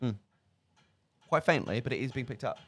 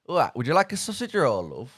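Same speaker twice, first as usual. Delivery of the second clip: put-on northern accent; 2 semitones higher, 5 dB louder than usual. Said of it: "I played Mister Gregg from up north".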